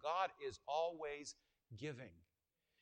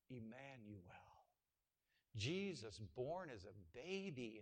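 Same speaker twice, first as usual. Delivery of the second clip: much softer, lower, savoring risky; hushed reverent telling; 5 semitones lower, 11 dB quieter than usual. Acted. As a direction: tell it with awe, barely above a breath.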